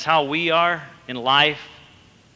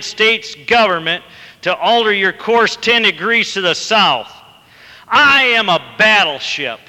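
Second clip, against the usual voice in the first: loud, high furious command; angry captain; 6 semitones higher, 4 dB louder than usual. A narrator's reading. Captain threatening the private with court-martial, furious. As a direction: roar it, losing his temper completely. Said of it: "the captain growled back over the radio".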